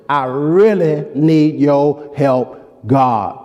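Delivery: slow, pleading plea to God; pleading prayer. Acted. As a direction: beg God for help, drawn out. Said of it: "That's got some emotion behind it".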